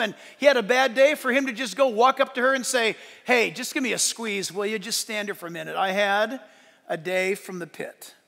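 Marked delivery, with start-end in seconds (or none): 3.2-8.1 weary tender request. Retold or imitated. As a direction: ask for a hug, worn out and gentle. Tired husband asking wife for hug.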